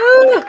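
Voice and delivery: loud, high ooh after a harsh swig; sharp ooh as the drink burns; burning liquor ooh. Real, not acted. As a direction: wince aloud at the burn of the booze.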